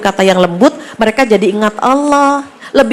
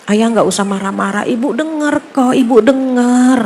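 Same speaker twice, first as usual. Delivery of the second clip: calm reassuring wife. Shown as a demonstration. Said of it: "kita mendekat dengan suara yang lembut".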